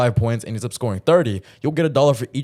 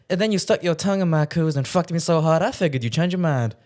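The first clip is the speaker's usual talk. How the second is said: put-on Southern accent line; 4 semitones higher than usual. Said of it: "she says something like".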